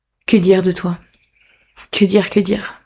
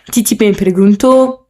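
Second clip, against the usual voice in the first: bad Spanish accent. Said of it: "mon accent es-, espagnol absolument effroyable".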